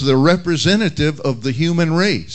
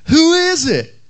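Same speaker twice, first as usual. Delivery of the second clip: high, louder parrot squawk; 14 semitones higher, 4 dB louder than usual. Retold or imitated. Parrot calling out again, high loud squawk. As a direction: screech it like a parrot. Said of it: "the bird called out".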